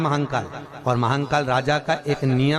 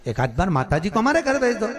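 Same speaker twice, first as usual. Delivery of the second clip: lightly voiced mock plea, raised in pitch; mocking request; 4 semitones higher than usual. Scoffer asking the saint for a home visit, lightly mocking. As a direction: imitate a scoffer, pitched higher. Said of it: "हंसी उड़ाने वाले तो कुछ भी बोल देते".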